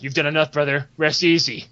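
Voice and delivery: low, settled reassurance; reassuring comrade. Acted. Guildmate telling his brother to rest easy, reassuring.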